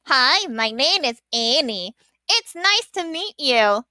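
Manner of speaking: bad ventriloquism, lips barely moving; ventriloquist puppet voice. Shown as a demonstration. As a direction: voice the doll without moving lips. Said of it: "hide my very bad ventriloquism skills".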